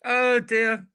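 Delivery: high, laughter-strained sigh of words; helpless laughter. Real, not acted. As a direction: wail it weakly through laughter.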